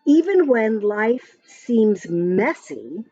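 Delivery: lively sing-song rhyme reading; reading to children. Acted. Parent reading a rhyming story app to a child, sing-song. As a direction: read the verse brightly to a little one. Reads Maestro's message.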